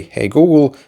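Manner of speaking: calling out to the phone; talking to voice assistant. Shown as a demonstration. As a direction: wake the phone up clearly. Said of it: "simply say".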